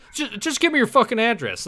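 a hint of a gruff demand; mock rude demand. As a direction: push the address demand a little harder. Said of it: "I'm like".

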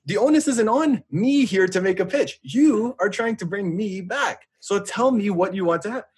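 high, slow, exasperated lecture to the rep; exasperated lecturing. Retold or imitated. Telling off the sales rep, exasperated and slow. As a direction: lay it out slowly, fed up with him. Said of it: "I'm like".

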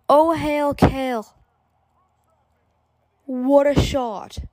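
excited. Real, not acted. Still celebrating the goal.

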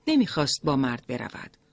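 ordinary delivery

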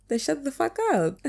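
laughing. Real, not acted. Laughing at own blunt advice.

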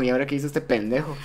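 fast, laughing mock exasperation; amused dad. Father called to school again, amused exasperation. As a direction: ask it chuckling, like dad's seen this before. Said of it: "bien feliz, así como".

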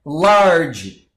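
"Large" held long as a single syllable; one firm, stretched "Large"; one-sound demonstration. Shown as a demonstration. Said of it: "é um som só".

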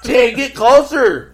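put-on high, loud, drawn-out Spanish-accented shout; mock Spanish accent. Urging Jay to get closer, mock Spanish accent. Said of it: "you make him sound Spanish".

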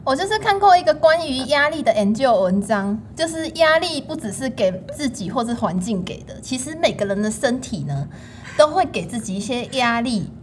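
put-on Taiwanese Mandarin accent. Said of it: "您是不是在学您娘啊".

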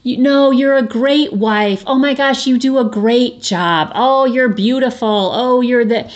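high, fast, gushing reassurance; mock a friend rushing to deny it; gushing girlfriend. Imitating a girlfriend brushing off a friend's guilt, high and gushing. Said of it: "one of my girlfriends says something".

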